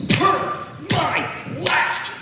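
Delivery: a mock-sweet, stretched-out jab; passive-aggressive. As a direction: drip with fake politeness. Passive-aggressive email phrase, mocked.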